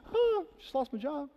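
high, breezy laugh through the words; carefree chuckle about being fired. Acted. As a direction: shrug off the lost job with a giggle. Acted happy jobless believer.

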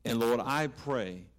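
slow, earnest pastor's prayer; closing prayer. Acted. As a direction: pray aloud for the room, steady and earnest.

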